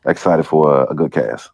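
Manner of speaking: hoarse, rough sick voice; talking through a sore throat. Real, not acted. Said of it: "I'm a little under the weather".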